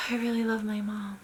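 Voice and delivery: whispered, tender; a child whispering love; soft whisper. Retold or imitated. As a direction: breathe it out like a calmed child.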